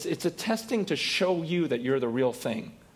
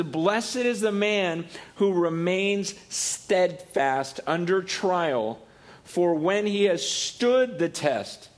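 reading scripture; slower than usual. Real, not acted. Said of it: "Another great verse is".

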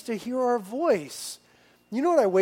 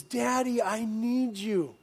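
lightly imitating the son calling; child voice, gentle; 2 semitones higher, 4 dB quieter, slower than usual. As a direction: say it like a sleepy small boy. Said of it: "that little boy says".

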